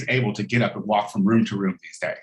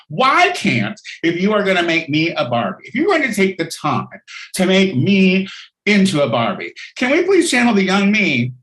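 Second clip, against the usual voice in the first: mock Queen Elizabeth; 5 semitones higher than usual. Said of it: "If I was Queen Elizabeth".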